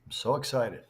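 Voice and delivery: deadpan, no enthusiasm at all. Real, not acted. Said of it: "that sounded like me with my deadpan voice".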